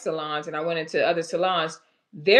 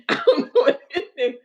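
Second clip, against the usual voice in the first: imitating guest; 7 semitones higher, 5 dB louder, faster than usual. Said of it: "Don said".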